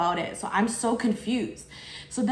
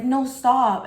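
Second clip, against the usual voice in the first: louder, higher mock protest; retold freak-out; 4 semitones higher, 6 dB louder than usual. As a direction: act out her alarmed refusal. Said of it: "she apparently freaked out".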